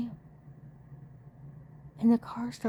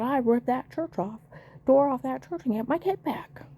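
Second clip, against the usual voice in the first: louder, emphatic retelling of a threat; mildly heated, raised-voice quote; retold angry outburst; 4 semitones higher, 4 dB louder than usual. Retelling neighbour's threat to the church, raised indignant voice.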